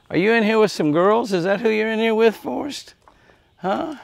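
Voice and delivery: high, sing-song voice for animals; cooing pet talk. Real, not acted. Feeder coos at the young buck, high and sing-song. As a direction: coo up high like talking to a pet.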